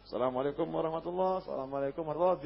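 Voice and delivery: lightly intoned closing salam of prayer; imitating prayer salam. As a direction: act out the imam ending the prayer.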